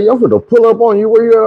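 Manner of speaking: hint of a girl calling to pull up; woman on the phone. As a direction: play her casual and eager. Woman voiced in story, raised pitch.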